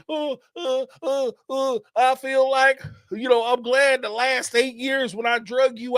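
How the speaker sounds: mocking Cody. Mocking Cody's rambling breakup talk to Mary, high and halting. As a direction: play a fumbling guy stumbling through a speech. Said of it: "what was that rambling ass conversation Cody was having".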